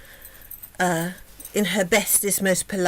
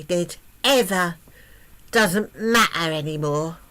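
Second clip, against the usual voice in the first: gloating princess; 3 semitones higher, 4 dB louder than usual. Acted. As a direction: crow over the robe like a spoilt brat. Princess gloats in new robe.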